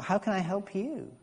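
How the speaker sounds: How can I help you with can stressed. Shown as a demonstration. Preacher trying another reading, can stressed. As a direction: push the word can.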